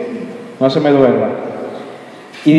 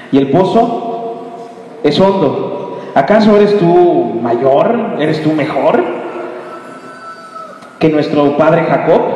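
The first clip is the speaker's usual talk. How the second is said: sarcastic woman; slower than usual. Acted. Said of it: "irónica, sarcástica".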